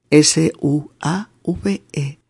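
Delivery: usual speaking voice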